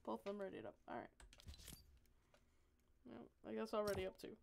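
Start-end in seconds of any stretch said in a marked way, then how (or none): none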